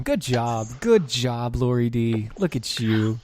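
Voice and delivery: high cooing puppy talk. Pretend. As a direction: coo like praising a pet. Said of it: "it's like I'm a puppy".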